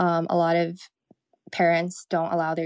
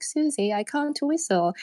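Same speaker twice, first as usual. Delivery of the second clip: higher, childlike cartoon-pig whine; high Peppa Pig voice; 9 semitones higher than usual. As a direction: play Peppa whining to her friend. Peppa calls Susie, retold scene.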